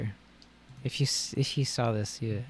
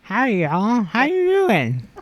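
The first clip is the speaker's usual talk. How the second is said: tongue sticking out; 11 semitones higher, 12 dB louder than usual. Acted. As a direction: talk with the tongue stuck out. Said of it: "talk to the tongue sticking out".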